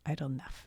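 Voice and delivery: "Knopf" said as NUFF, no K; silent K. Real, not acted. Host testing another reading, saying "Knopf" without the K. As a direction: drop the K from "Knopf". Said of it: "It's probably a silent K".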